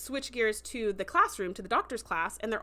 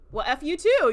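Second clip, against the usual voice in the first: louder, higher imitating a snapped insult; hammed-up louder F-you; mock angry retort; 6 semitones higher, 9 dB louder than usual. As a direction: throw it back like a retold curse. Retold friend storming off angrily.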